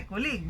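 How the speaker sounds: colleague stressed late, on LEAGUE; misplaced stress. Shown as a demonstration. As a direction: say col-LEAGUE, second syllable strong. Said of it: "we don't say colleague".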